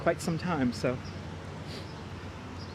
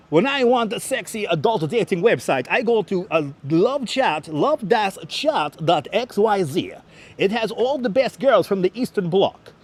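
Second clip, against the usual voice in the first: mock ad read; 3 semitones higher than usual. Streamer to viewers, hamming up a fake dating-site ad. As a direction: sell the dodgy site like a cheesy radio spot.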